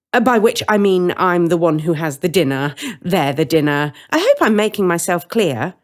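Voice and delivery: matter-of-fact threat; lightly voiced cheerful villain; menacing witch.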